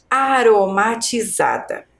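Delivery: aromatizada slowly, with a light tapped R; slow model pronunciation of aromatizada; weak R. Shown as a demonstration. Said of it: "a minha pronúncia é fraca".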